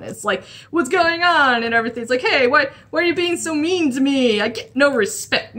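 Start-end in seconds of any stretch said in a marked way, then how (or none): 0.7-1.6 lightly voiced offended shark, pitched up; mock-hurt, higher question; upset talking shark. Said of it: "gets a little bit upset and offended". 2.2-5.6 a touch of offended cartoon shark; mock-hurt complaint with a catchphrase finish; Jabberjaw. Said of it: "yeah, it's Jabberjaw".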